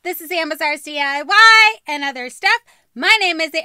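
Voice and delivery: loud, high, bubbly channel greeting; energetic YouTuber intro; vlog intro. Shown as a demonstration. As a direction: hype up the viewers. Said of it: "Hold on".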